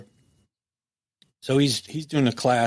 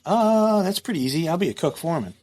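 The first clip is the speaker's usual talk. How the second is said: breezy relief; 5 semitones higher than usual. Retold or imitated. Retold reply to warden's offer.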